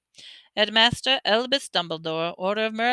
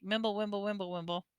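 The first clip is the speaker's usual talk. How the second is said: much softer, barely there mumble; mumbled whisper; 11 dB quieter, faster than usual. A narrator's reading. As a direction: mumble it under your breath. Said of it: "whispered something".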